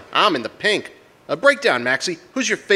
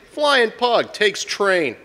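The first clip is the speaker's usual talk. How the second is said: mock newspaper headline; much slower than usual. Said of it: "The papers will all say".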